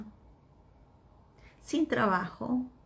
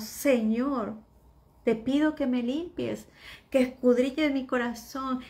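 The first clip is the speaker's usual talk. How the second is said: louder, pleading prayer to the Lord; fervent prayer; 4 semitones higher, 5 dB louder than usual. Acted. Believer praying to the Lord, pleading louder. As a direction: cry out to God with your whole heart.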